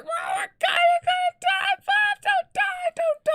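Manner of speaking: frantic, very high, loud mock screech; piercing falsetto wail, hammed-up; friend shrieking. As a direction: imitate a panicking friend screaming. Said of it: "and she's like".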